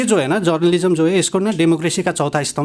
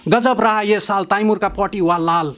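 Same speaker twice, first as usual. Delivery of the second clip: rhyming headline; slower than usual. Retold or imitated. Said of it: "इस तरह के rhyming करके".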